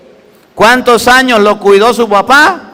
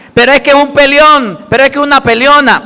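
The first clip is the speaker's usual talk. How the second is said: mock whiny child; 7 semitones higher than usual. Mocking complaining grown children.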